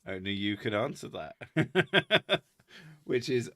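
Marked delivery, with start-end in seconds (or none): 0.1-2.4 slow, flat deadpan reply. Retold or imitated. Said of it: "He's like".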